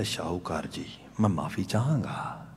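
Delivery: subdued, acted remorse; humbled apology. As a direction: apologise quietly as the chastened craftsman. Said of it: "ਅੱਖਾਂ ਪੂੰਝਦਾ ਹੈ".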